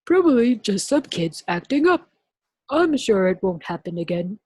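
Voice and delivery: lightly voiced reassurance; breezy cover. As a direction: brush it off. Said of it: "said Miss Swamp".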